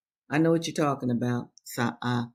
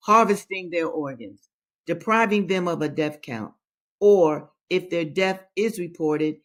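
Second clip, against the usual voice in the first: poem reading. Acted. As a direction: read the poem gravely, weighing each line. Reads a poem aloud.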